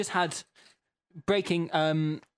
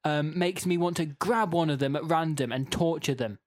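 emphatic, mildly raised rant; mock angry reading; 3 semitones higher than usual. Host reading an irate listener's goat rant, mock angry. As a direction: escalate an absurd complaint with mild outrage. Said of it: "the thing that everyone's angry about".

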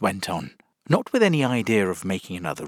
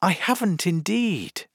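higher, gentle denial; very gently; 9 semitones higher than usual. A narrator's reading. Alice answers Humpty's angry accusation, very gently. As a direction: deny it kindly, without heat. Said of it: "very gently".

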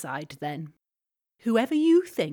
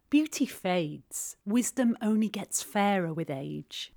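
wise voice. Acted. Athena says it to Zeus in a put-on wise voice. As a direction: pronounce it like an ancient oracle. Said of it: "you say it in a wise voice".

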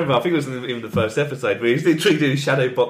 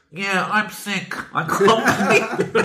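faking frailty; 4 semitones higher, much slower than usual. Retold or imitated. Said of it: "I love the voice acting".

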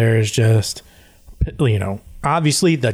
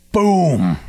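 single punchy boom, pitched up then dropping; imitated boom; 5 semitones higher than usual. Player retelling a huge bang, imitated boom. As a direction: voice the boom as a sound effect.

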